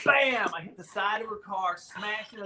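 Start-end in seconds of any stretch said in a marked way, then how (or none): 0.1-0.5 high, loud "bam!" of the crash; crash sound effect. Retold or imitated. Telling friends about the bike crash, loud sound effect. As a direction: punch out the impact noise. Crash into the Avon lady's car.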